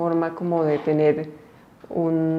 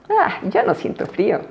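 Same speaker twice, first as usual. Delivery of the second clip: bear cub; 6 semitones higher than usual. A narrator's reading. Bear cub voiced in story.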